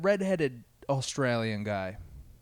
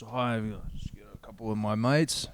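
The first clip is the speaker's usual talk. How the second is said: put-on light Australian accent; 3 semitones lower, 5 dB quieter, faster than usual. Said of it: "some Australia guys sound all right".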